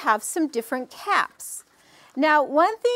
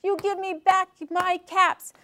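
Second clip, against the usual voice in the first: high, indignant mock tantrum; mad peddler; 6 semitones higher than usual. A narrator's reading. Foot-stamping peddler demands caps from monkeys, storybook anger. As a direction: scold on a high, drawn-out pitch. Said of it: "The man got so mad".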